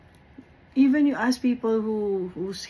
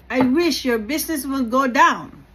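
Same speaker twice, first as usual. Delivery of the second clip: angry curse; 4 semitones higher, 6 dB louder than usual. Retold or imitated. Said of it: "he was cussing me".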